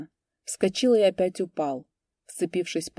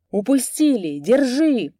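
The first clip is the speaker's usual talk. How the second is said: shout; 6 semitones higher, 7 dB louder, slower than usual. A narrator's reading. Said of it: "кричали они".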